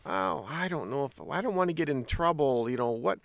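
lightly mocked hand-wringing; hesitant, worried. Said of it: "the more hesitant they are".

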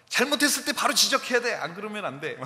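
a quick stern rule to yourself; mock stern parent. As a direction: snap it out like a strict parent. Parent voicing strict thought.

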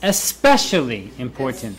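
"Especially" stressed on "spe", then falling. Shown as a demonstration. Teacher repeats the highlighting word, stressing "Especially". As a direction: lean into "Especially". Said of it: "make these words emphasize out".

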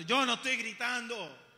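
mild mock yell, protesting; mock yelled denial. Preacher imitating an angry person denying shouting, mock yell. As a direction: raise the voice while denying it. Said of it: "¿Por qué estás gritando?".

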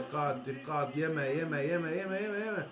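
low hushed pleading; tense murmur. Real, not acted. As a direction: breathe the words out in dread. Tense moment, danger near goal.

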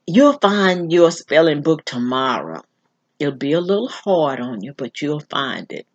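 a calm foretelling, softening at the end; a hint of an older woman's voice. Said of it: "it was an older woman's voice".

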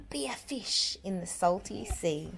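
soft breathy whisper. Acted. Reader pretending to float in the sea, whispering. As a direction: whisper it like you're underwater.

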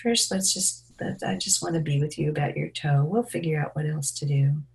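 soft, soothing refusal; tender parent voice, lightly acted; reassuring parent. Shown as a demonstration. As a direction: gently hold the line with a hurt child. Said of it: "offer your presence and make the situation safe".

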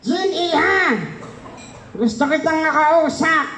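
mock calling out. Repeat of skit, calling out.

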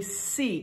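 "see" set apart with firm emphasis; stress on see. Real, not acted. Preacher explaining how they read scripture, stressing "see". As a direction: lean on the word "see". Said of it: "an emphasis on the word see".

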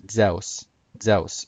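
Zeus said zeh-oos, gliding eh into oo; classical Greek pronunciation. Shown as a demonstration. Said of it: "hard for me to pronounce it".

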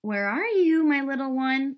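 high, loud, long-held call; quacking mother duck. A narrator's reading. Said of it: "quacked Mother Duck".

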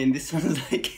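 giggling through the words; trying hard not to laugh; stifled giggles. Real, not acted. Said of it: "trying not to laugh".

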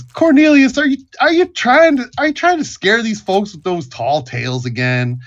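put-on high, loud barkeep voice teasing an old regular; Buck the bartender.

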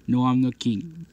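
understated play-voice comeback; calm rival monster. Pretend. Rival monster answering the boast, calmly contradicting. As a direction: answer back without raising your voice. Two monsters argue who is king.

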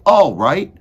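loud, high character reply; Meg's voice. A narrator's reading. Meg gives in to Cook, replying loudly. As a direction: agree at full volume, pitched high. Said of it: "said Meg".

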